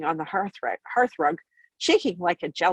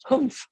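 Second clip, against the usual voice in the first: snort; 7 semitones higher than usual. A narrator's reading. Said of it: "some snort more or less like that".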